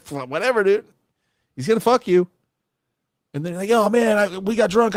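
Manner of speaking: high, whiny mock protest from the fooled friend; high mocking voice of a friend who won't listen; mock deluded friend. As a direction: play the friend in denial, shrill and indignant. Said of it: "it's like you're on a date with a girl and we're like".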